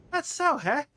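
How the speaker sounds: a sly eager question; sly merchant. Acted. Quint greets the player's interest in trading, sly.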